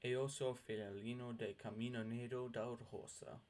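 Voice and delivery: each syllable said slowly and clearly: "Eoso filalino de camino negro da rosa"; slow clear dictionary pronunciation. Shown as a demonstration. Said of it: "this word is pronounced".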